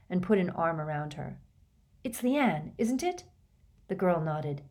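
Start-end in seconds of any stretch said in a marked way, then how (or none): 2.0-3.2 high, gentle questioning voice. A narrator's reading. Hermione to Katie's wailing friend, gentle. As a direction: ask a distressed girl kindly. Hermione comforts crying girl.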